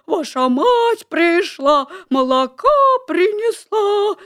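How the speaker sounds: wolf's slow, high falsetto; thin put-on voice. A narrator's reading. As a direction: fake a thin sweet mother voice. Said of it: "причитывать тоненьким голосом".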